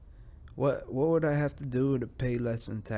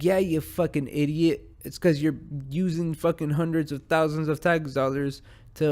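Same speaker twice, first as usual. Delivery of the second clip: raised, heated telling-off; mock angry rant; 3 semitones higher, 3 dB louder than usual. Podcaster ranting at a politician, loud and heated. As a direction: chew him out like an angry taxpayer. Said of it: "They're like".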